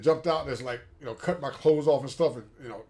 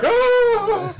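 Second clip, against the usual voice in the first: long, high, loud comic "oh"; hammed-up howl of dismay; mock wail; 7 dB louder than usual. Veteran mimics his reaction to the medic's verdict, wailing high. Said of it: "I was like".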